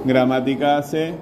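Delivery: slow, rising at the end; teacher reading out an address; measured dictation. Real, not acted. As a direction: dictate it carefully, a little slowly. First dictation of email address.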